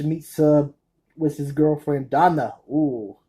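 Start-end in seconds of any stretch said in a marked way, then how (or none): 2.7-3.2 imitated Mexican accent. Fan imitating a movie character's line, Mexican accent. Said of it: "in that stereotypic Mexican accent".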